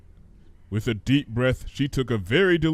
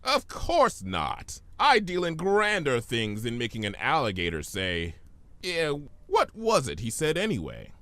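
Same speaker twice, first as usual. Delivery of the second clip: smooth trickster voice; 3 dB quieter than usual. Acted. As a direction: play a smug chaos spirit. Discord voiced in story.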